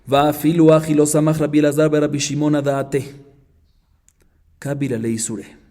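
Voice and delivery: steady, level reading of Aramaic; Talmud text recitation. Acted. Teacher resuming the Gemara for students, recitation.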